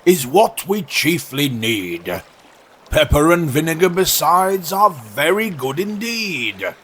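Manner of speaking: slow, lightly voiced walrus; stately walrus. Walrus inviting oysters to the meal, mildly pompous. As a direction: savour it with a measured delivery.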